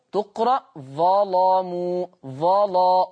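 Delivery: slow ظلموا with a thick, full lam; slow demo of a heavy lam in ظلموا. Shown as a demonstration. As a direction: weigh down the lam in ظلا. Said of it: "سامعين صوت اللام".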